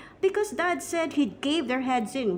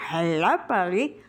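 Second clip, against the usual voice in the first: lowered budgie voice with a rising lilt; talking budgie; 5 semitones lower than usual. Acted. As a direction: mimic a pet bird greeting its owner. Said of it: "dream about him saying".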